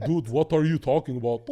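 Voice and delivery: lightly mocked immigrant-American accent; Logan's supposed accent. Showing how a YouTuber talks, mild mock accent. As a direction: say it in a slightly stilted put-on accent. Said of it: "Have you heard him?".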